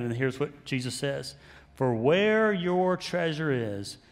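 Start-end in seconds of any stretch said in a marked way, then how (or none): 1.7-4.0 slow, solemn Bible reading; scripture reading. Acted. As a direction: read the words of Jesus slowly, with weight.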